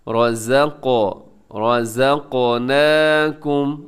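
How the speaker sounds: slow रज़क़नाकुम with a bouncing क़; qalqala. Shown as a demonstration. Teacher showing students the jazm rule, qalqala on क़. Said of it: "आप इसमें कलकला कीजिएगा".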